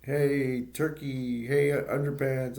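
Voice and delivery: mildly heckling, mock taunts; retold heckling. Clark needles the bartender at the bar, retold heckling. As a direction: lightly imitate a heckler calling out. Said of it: "Clark decides to heckle the guy".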